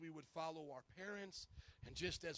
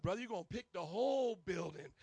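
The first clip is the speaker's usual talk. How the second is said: a hint of a stern drill-sergeant brother, louder; 6 dB louder than usual. Brother T ordering the pastor to weed, lightly voiced stern order. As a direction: bark it flatly like a drill sergeant. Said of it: "he's like".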